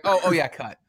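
imitating talking through food; mock director with a mouthful; mouth full. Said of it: "He's got his mouth full of Sam".

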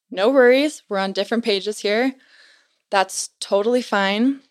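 placating missionary. Retold or imitated. Brother-in-law calming the woman.

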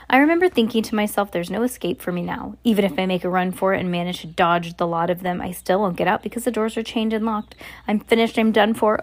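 expressive read-aloud storytelling; story narration. A narrator's reading. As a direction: read it like a children's novel.

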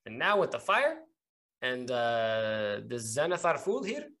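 halting officer's admission in character; suspicious captain. Acted. Captain admitting doubts about patrol orders, halting and suspicious. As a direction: admit it guardedly, feeling your way through.

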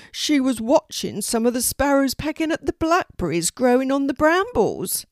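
high, lively raven voice; explaining raven. Acted. Melina the raven explains what Poppy was doing, high explaining voice.

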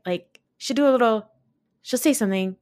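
whispered imitation of a friend; mock whispery delivery; imitating whisper talk. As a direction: breathe it out in a whisper. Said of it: "that's how Sheree talks".

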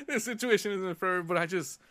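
repeating a self-reassurance while laughing. Real, not acted. Repeats line, then laughing.

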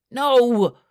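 loud, high cry of protest; high-pitched, anguished outburst. A narrator's reading. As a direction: cry out in dismay. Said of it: "I cried".

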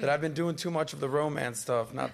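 hoarse from a cold; sick, scratchy throat; throaty voice. Real, not acted. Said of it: "You can hear it in my throat".

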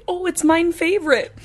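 laughing, "mine favorite" said with "mine" for "my"; childlike mine favorite. Retold or imitated. Mom's autistic boy's catchphrase, quoted through laughter. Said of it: "that's what he used to say".

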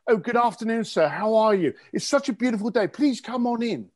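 a light imitation of a posh British butler, greeting politely. Staff for rich people greet a guest in a mildly imitated posh British accent. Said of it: "they sounded like the butler off of Downton Abbey".

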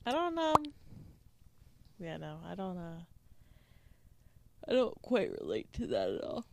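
talking through a yawn; yawny, stretched words. Real, not acted. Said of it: "I'm sorry if I keep yawning a lot".

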